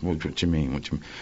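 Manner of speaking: softly mumbled, reluctant reply; imitated mumbling. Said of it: "he started mumbling under his breath".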